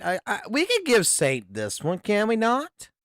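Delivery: ordinary talk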